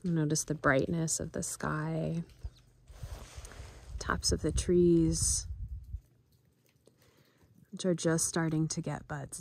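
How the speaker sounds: gentle, unhurried guide with long pauses; guided meditation. Acted. Guide inviting viewers to notice nature sights and sounds, gentle meditation voice. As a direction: soften gradually into a quiet mindfulness voice.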